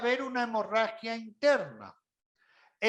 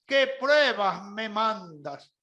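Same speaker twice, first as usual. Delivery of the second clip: hammed-up cry to the Lord; mock lament to the Lord; mock wail to heaven; 4 semitones higher, 4 dB louder, slower than usual. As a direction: wail like a self-pitying martyr. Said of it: "pega el grito al cielo diciendo".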